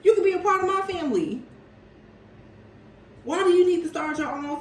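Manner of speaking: teasing parody of the man's offer; mock man's voice. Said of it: "This man is like".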